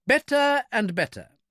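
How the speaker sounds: high, slow, savouring remark; pleased little man. A narrator's reading. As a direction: savour it to yourself, pitched high. Little man smiles to himself.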